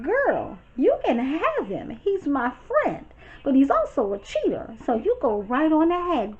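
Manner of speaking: high, sassy brush-off; sassy dismissal. Retold or imitated. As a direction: hand her off with sass. Retold dismissal of Melissa.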